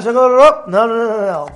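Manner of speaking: loud, rising insistence; emphatic no. Real, not acted. Rabbi stops the class with a loud no. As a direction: cut them off with a firm loud no. Rejecting a flat beracha.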